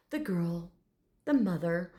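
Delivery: lightly voiced proper gentleman; name each one with detached formality; formal address. Shown as a demonstration. Dragon naming his family, mildly formal. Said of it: "this is how he addressed".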